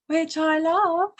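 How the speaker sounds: high, loud, drawn-out relish; slow gleeful gush tipping into laughter; gleeful delight. Real, not acted. Delighted aside, breaks into laughter.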